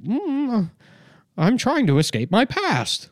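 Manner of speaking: very high, slow white-guy voice; hammed-up white-guy impression, high and slow; overly white talk. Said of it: "relearn how to talk white".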